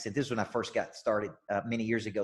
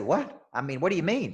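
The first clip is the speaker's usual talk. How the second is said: surprised; 4 semitones higher than usual. Retold or imitated. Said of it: "And I said".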